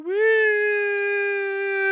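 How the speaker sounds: long, high "woo" cheer; crowd cheer. Acted. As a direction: imitate a crowd whooping, held long and high. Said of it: "They're like".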